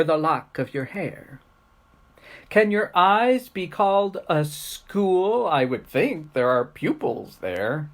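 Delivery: playful rhymed questions with lilting pitch; poem recitation. Acted. Teacher reciting a silly poem to kids, performed recitation. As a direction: recite it as a comic poem, stressing the key words.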